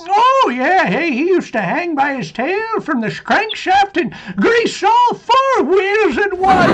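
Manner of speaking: put-on old man laughing through the punchline. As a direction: chuckle the last words out. Tall tale told with laughter.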